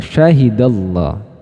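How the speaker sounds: Syahidallah with a thick, heavy Allah, slowly; slow tafkhim Syahidallah; read thick. Shown as a demonstration. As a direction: press the lam of Syahidallah full and dark. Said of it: "maka dibaca tebal".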